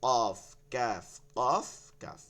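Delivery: "কফ" heavy and round, "ক্যাফ" thin and light; thick versus thin. Shown as a demonstration. Teacher setting two letters side by side, thick then thin. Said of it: "মোটা plus ভারী".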